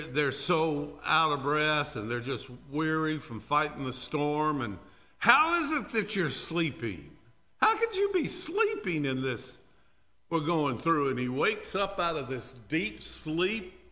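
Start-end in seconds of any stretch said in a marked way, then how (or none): 5.2-11.1 frantic sailors. Acted. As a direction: push it up in disbelief. Sailors confront sleeping Jonah.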